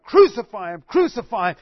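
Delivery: loud mock crowd chant, crucify him; crowd crying out. Preacher voicing the outraged crowd, loud mock shout. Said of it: "the outrage of the people crying out".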